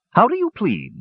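high, commanding queen's voice; stern villain queen demanding a plea; High Lord demanding. A narrator's reading. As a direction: demand it from the throne. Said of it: "she demanded".

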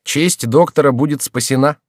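mock the patient's rage; a hint of sly grumbling Remy; wry doctor. A narrator's reading. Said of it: "ворчал Реми".

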